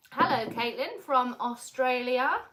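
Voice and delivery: a slow, hammed-up Australian accent greeting; a bad mock Australian accent, drawn out; a lightly put-on, unconvincing Australian accent; terrible Australian accent. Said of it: "That's my really terrible, terrible Australian accent".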